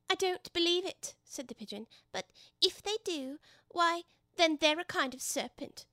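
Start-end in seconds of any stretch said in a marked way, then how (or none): 0.1-1.2 high bird-voice refusal; disbelieving pigeon. Acted. Pigeon rejecting Alice's egg defence, high disbelief. 2.1-5.9 high bird-voice reasoning; argumentative pigeon. Acted. Pigeon arguing little girls are serpents, high and insistent.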